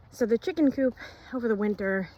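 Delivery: breathing hard after shoveling. Real, not acted. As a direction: talk while catching your breath. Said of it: "sorry, I'm breathing hard".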